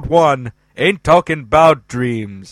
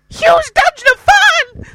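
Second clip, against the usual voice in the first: shouted title; 9 dB louder than usual. Acted. Jingle title shouted high.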